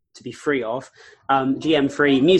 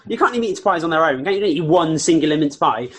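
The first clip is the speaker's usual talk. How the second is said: laughing; 3 semitones higher, 5 dB louder than usual. Real, not acted. Laughing while teasing co-host.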